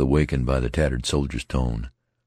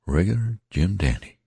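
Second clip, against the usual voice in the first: higher voice, a man half in wonder; lightly voiced rough soldier; folksy soldier murmuring praise; tattered soldier, musing; 5 semitones higher than usual.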